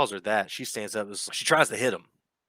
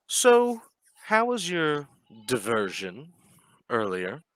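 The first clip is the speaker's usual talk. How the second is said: mocking host; 5 semitones higher, 4 dB louder, slower than usual. Baron greets players mockingly.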